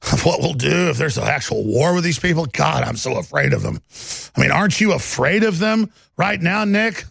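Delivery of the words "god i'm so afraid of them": mock fear. Mocking fear of opponents.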